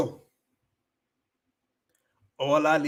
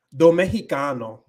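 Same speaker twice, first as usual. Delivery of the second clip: Mexican accent; 5 dB louder than usual. Shown as a demonstration. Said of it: "I can definitely pull it off".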